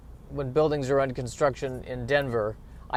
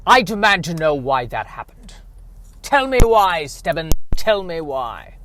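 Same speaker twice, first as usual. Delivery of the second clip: mock demand; 3 semitones higher, 7 dB louder than usual. Demands answer from Stebbins.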